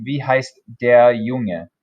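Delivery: Wie heißt der Junge said slowly and clearly; careful German teacher model; slow German model phrase. Shown as a demonstration. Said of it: "What is the boy's name?".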